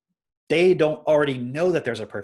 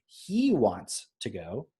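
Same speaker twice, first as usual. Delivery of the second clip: very slow, carefully spelled-out "He wants to go"; slow teaching demo; model sentence; much slower than usual. Shown as a demonstration. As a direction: teach it word by word. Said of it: "you might say".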